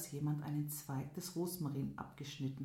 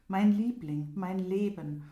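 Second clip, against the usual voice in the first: shouting out to her, much louder; loud lovesick call; 3 semitones higher, 8 dB louder than usual. Acted. Lovesick prince calls to the girl. (lauter, verzweifelter Liebesruf)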